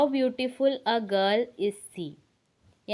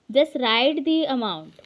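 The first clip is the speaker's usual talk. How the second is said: very slow and a bit louder; slow wrong example; 2 semitones higher, 5 dB louder, much slower than usual. Shown as a demonstration. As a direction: spell out the wrong order slowly. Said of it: "ऐसा sentence नहीं बनता". (गलत क्रम बहुत धीरे)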